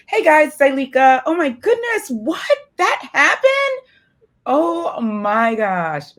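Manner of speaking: school voice. Retold or imitated. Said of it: "And then I go to school".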